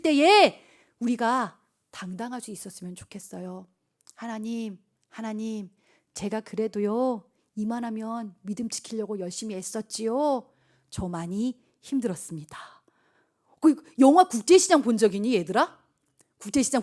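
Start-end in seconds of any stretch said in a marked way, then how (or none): 4.1-12.6 weary confession. Acted. Believer telling God it was hard, softly and wearily.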